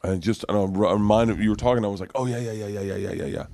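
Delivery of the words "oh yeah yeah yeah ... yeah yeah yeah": muttered agreement. Retold or imitated. Recalling own absent-minded agreeing.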